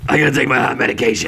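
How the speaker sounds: fast mock referee announcement; referee penalty announcement. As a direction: rattle it off like a ref on the mic. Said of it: "Great referee impression".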